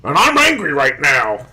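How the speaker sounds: slow, deadpan whiny promo; mock boring wrestler. Host mocking a slow, dull wrestler promo, deadpan. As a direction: drag it out like a dull scripted wrestler. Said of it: "I don't want these guys to come out and be like".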